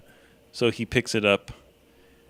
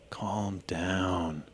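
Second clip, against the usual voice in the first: soft unvoiced whisper; 4 dB quieter, much slower than usual. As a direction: whisper it gently to calm. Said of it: "and whisper".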